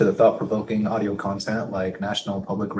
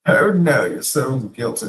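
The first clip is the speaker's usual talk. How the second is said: mock dismay; 4 semitones higher, 3 dB louder than usual. Mock reaction to Greek guilt.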